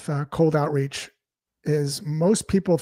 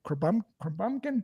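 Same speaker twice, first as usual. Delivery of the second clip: fumbling name; 4 semitones higher, 10 dB quieter, much slower than usual. Real, not acted. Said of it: "I can't remember the name".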